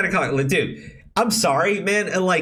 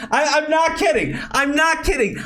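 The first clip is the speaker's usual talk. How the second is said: exasperated; 6 semitones higher than usual. Real, not acted. Still ranting after the shouting.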